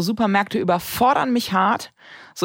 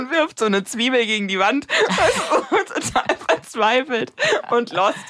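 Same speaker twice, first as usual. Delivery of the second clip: laughing; 5 semitones higher than usual. Real, not acted. Laughing retelling.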